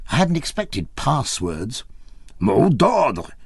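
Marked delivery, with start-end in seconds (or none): 2.4-3.3 a lightly voiced Russian repeating the demand, a bit louder; insistent Russian guard. A narrator's reading. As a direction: press him for the password again. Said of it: "repeated the Russian".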